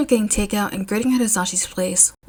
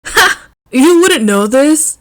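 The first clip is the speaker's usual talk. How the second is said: higher, louder laughing exclamation; laughing higher, louder, slow on the question; surprised laugh; 7 semitones higher, 8 dB louder, slower than usual. A narrator's reading. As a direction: bark it out amused. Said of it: "barked out a surprised laugh".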